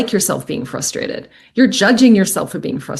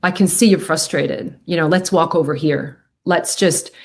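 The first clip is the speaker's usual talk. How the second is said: calm validating voice; 4 semitones lower than usual. Shown as a demonstration. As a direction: soothe an angry teenager gently. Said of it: "the best way to calm someone down is just to go".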